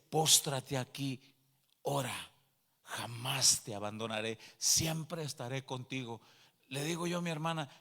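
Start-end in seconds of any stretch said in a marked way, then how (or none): 0.1-6.2 lightly voiced holy figure, low and solemn; robed heavenly figure. Robed figure bidding the convert pray, lightly voiced, solemn and low. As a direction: give a calm command, then a low promise. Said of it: "y me dice".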